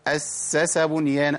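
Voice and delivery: أسس slowly with every sīn given its time; correct triple s. Shown as a demonstration. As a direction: hold the doubled s, then voice the last s of أسس. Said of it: "ده الصواب الأخيرة دي".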